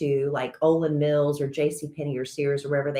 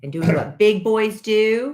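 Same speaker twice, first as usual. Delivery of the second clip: put-on 1 talking to a toddler; 4 semitones higher, 7 dB louder, slower than usual. Questioning a toddler nephew.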